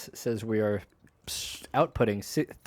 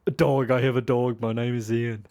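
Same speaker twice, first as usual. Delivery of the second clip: bad Ian impression. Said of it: "That's my Ian impression".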